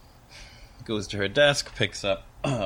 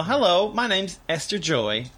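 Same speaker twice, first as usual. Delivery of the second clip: put-on Esther introduces herself with a mild Southern accent, pitched up. Esther introduces herself to Dolly in a light Southern accent. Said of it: "I don't know why I'm Southern right now".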